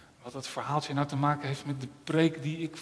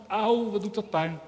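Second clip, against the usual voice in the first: higher, whining complaint of pain; crying in pain; 6 semitones higher than usual. Acted. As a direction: moan about the hurt. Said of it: "huilde Tom". (hoger klaaglijk jammeren van pijn)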